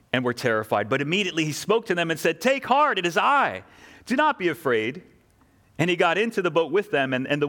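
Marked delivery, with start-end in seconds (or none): 2.4-5.0 Jesus calling out. Acted. Jesus calls to disciples in storm.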